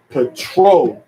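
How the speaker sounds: "petroleum" with TRO punched; peTRO-le-um, broken out by syllable; third-to-last syllable stress. Shown as a demonstration. Teacher showing English stress, "petroleum" punched on TRO. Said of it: "the third to the last syllable".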